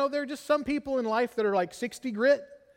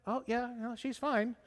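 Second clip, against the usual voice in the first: relieved soft aside; 3 semitones higher, 7 dB quieter than usual. Retold or imitated. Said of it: "Rush in".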